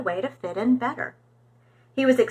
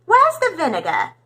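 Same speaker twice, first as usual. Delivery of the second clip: put-on English accent; 5 semitones higher, 4 dB louder than usual. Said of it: "asked in his different accent".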